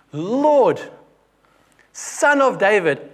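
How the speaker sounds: acted woman. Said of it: "and she says".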